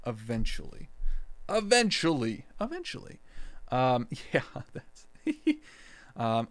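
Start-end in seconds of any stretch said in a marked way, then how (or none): 1.5-2.5 playful repeat. Pretend. Repeats word in contrasting voices. 2.6-3.2 tiny, high, soft "Eventually"; squeaky echo. Pretend. Streamer repeating himself for fun, squeaky echo.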